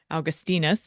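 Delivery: "Augustinus" said ow-gus-TEE-nus; Latin pronunciation. Shown as a demonstration. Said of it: "it would be more like".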